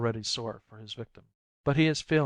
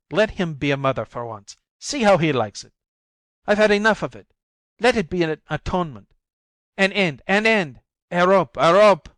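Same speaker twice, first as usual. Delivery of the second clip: higher, louder desperate outburst; frantic cry for help; 5 semitones higher, 8 dB louder than usual. A narrator's reading. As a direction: cry out as if from a fire. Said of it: "like a cry for help".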